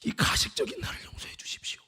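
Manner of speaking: hushed, whispery plea for forgiveness; retold contrite prayer in a weak voice; tearful repentance. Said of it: "눈물이 뚝뚝뚝 떨어집니다".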